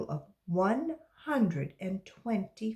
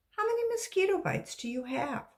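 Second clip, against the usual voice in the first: teacher; 13 semitones higher than usual. Acted. Teacher asks.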